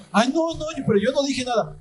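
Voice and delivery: whiny protesting member. Retold or imitated.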